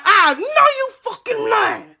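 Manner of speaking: high, drawn-out disbelieving yell; retold disbelief. Reacting to her own cut lip, shocked high yell.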